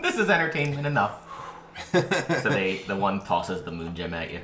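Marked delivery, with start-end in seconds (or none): 0.0-1.2 fairy. Acted. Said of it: "They go".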